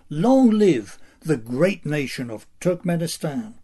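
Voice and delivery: solemn state-media proclamation; north korean newsreader. Pretend. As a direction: declaim like a propaganda anchor. Mock tribute to dictator, declaimed.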